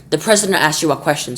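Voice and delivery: icy voice. Acted. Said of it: "in the icy voice".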